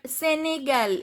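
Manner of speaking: "Senegal" ending on a clear l; "Senegal" as a careful model; pronounced final L. Shown as a demonstration. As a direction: say "Senegal" sounding the L. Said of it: "L is pronounced".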